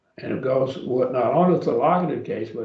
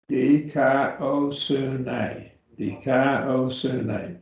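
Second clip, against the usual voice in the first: Dikaiosune slowly, syllable by syllable; broken into syllables; much slower than usual. Shown as a demonstration. Teacher breaking up a Greek word for the class, slowly syllable by syllable. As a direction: stretch out each syllable of Dikaiosune. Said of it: "now break it up".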